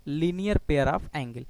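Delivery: very slow, each word stretched out; drawn-out term. Shown as a demonstration. Teacher slowly drills the English term for students. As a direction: spell out the term slowly for the class. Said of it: "क्या बोलते हैं?".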